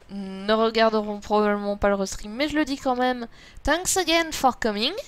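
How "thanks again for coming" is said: higher-pitched English with a French accent; self-mocked French accent in English. Real, not acted. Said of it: "j'ai un accent de merde en anglais".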